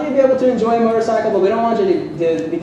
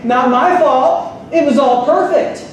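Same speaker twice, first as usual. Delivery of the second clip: mock excuse; 6 semitones higher, slower than usual. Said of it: "can I say".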